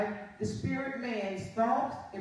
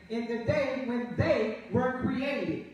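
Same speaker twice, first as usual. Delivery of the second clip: slow reading with "they" underlined; measured pace, setting "they" apart for emphasis; stress on THEY. Shown as a demonstration. Preacher underlining a Bible word for listeners, stressing "they". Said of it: "underline the word they".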